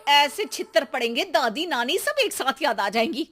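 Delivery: mildly cross mom voice; lightly voiced scolding mother; threatening mother. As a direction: warn the kid of a beating.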